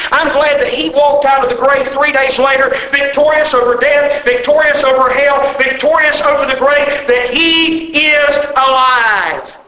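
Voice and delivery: rising triumphant refrain, slowing at the end; joyful pulpit crescendo; preaching. Acted. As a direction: build each victorious line like a wave.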